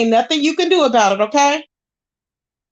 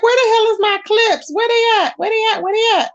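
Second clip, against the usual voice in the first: higher-pitched, worked-up frustration; exasperated; 8 semitones higher than usual. Real, not acted. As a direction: demand it repeatedly, getting mad. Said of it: "I'm getting mad".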